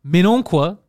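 imitated French-from-France exclamation; hammed-up French accent; mock French from France. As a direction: mimic the French way of protesting. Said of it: "Ils disent beaucoup ça".

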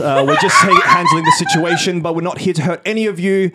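high, sweet cabin-crew announcement; flight attendant voice. Acted. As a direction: reassure the hostages like a flight attendant. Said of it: "flight attendant voiceover".

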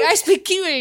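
mock Kiwi accent. Imitating Chris who likes to speak Kiwi, mock Kiwi accent. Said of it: "Chris likes to speak Kiwi".

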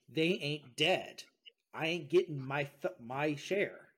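mildly indignant, emphatic grumble; pissed-off Hades. Acted. Storyteller voicing Hades cheated of his souls, mildly pissed. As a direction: lean hard and slow on the complaint. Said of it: "is pissed about this".

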